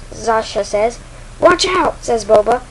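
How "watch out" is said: high-pitched call of alarm; urgent warning. Acted. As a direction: warn a partner sharply. Boba warns of attack.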